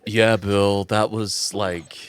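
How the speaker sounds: low, understated villager voice; unimpressed villager. Acted. Villager praising Bill for a kill, offhand and low.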